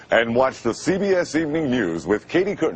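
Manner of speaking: playful mock news promo read; lightly put-on TV announcer voice. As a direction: tease with a hint of network announcer. Shows off announcer voice, teasing.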